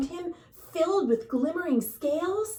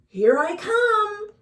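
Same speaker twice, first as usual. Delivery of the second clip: higher, louder and slow, beaming; happy reply; 9 semitones higher, 6 dB louder, slower than usual. A narrator's reading. Rainbow fish answering his new friends, happy and bright. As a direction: answer the call joyfully.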